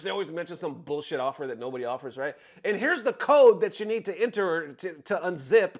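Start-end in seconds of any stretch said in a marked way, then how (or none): 2.6-5.7 louder mock scammer pitch; scammer's pitch. Scammer giving a target the code, mock pitch. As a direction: lightly play the scammer handing over instructions. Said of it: "they'll be quick to give you a code".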